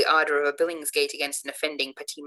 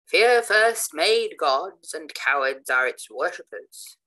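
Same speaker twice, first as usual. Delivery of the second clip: slow, declaiming, louder at the start; vociferated; 5 dB louder, much slower than usual. Acted. A new antagonist declaims at the believers, slow and loud. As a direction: hurl the maxim at the room. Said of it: "vociferated a new antagonist".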